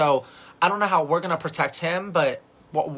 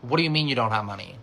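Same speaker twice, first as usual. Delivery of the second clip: low, menacing retold question; evil turn; 4 semitones lower than usual. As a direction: lightly voice a man turning sinister. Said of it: "turn another shade of, like, evil".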